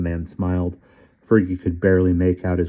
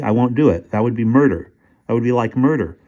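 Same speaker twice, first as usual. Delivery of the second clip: firm refusal; 4 semitones higher than usual. Acted. Fergie refuses firmly.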